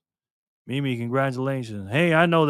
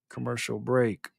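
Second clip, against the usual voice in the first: slow, lower, softer announcer call; mock announcer; 4 semitones lower, 7 dB quieter than usual. Shown as a demonstration. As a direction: drawl it out like a radio announcer. Host repeats segment call in a voice.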